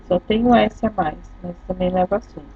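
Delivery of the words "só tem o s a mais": usual speaking voice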